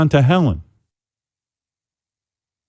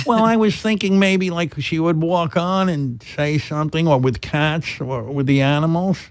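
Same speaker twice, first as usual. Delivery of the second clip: mother voice; 3 semitones higher, 4 dB quieter than usual. Retold or imitated. Son voicing his mother.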